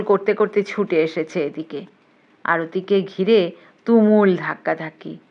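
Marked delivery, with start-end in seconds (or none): none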